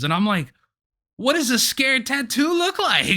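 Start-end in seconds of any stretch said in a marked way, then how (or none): 1.2-3.1 high-pitched baffled question; incredulous retort on the edge of laughter. Retold or imitated. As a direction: ask it in squeaky, comic disbelief. Acted disbelief at juror's reasoning.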